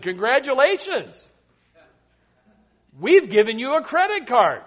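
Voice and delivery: rising congratulatory lilt; mock-gushing good-news letter; gushing announcement. Card company congratulating a new customer, gushing.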